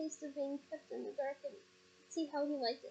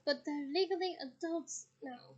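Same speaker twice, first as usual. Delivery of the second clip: tired. Acted. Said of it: "in the same tired voice".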